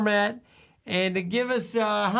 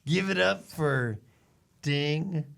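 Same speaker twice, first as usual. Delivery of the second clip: radio countdown host; 5 semitones lower than usual. Pretend. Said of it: "I'm Carson Kasem".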